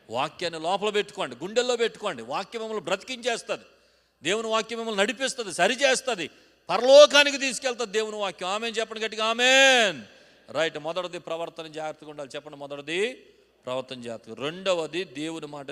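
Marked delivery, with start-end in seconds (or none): 0.1-10.0 loud, high, rousing exhortation; fervent pulpit cry; preaching at full force. Real, not acted. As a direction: build to a shouted Amen.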